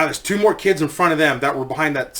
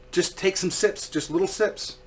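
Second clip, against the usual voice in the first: put-on softer, gentle coaxing to a sick child; quiet and gentle, guide to sick little girl; soothing softly; 3 semitones higher, 7 dB quieter than usual. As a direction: coax her like a calm nurse.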